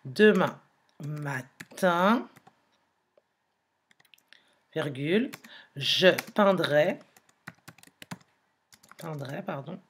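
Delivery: slow dictation with long pauses between words; dictating word by word. Shown as a demonstration. Teacher writing the sentence on the board, slow dictation. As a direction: spell it out as you write it on the board. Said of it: "en écrivant la phrase".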